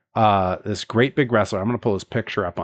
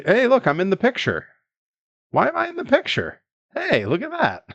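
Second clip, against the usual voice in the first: surprised; 12 semitones higher than usual. Real, not acted. Sees himself in the picture.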